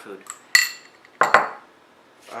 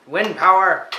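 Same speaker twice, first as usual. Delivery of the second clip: excited shout; 6 semitones higher, 10 dB louder than usual. Pretend. Turning the fan on, cheering.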